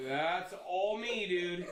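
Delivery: slow, drawn-out cocky boast; mock-proud slow brag; smug retort. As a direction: lean back and own it slowly. Brother's proud reply retold.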